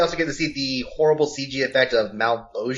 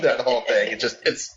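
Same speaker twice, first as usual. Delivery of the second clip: gravelly voice. Retold or imitated. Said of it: "his gravelly voice like this".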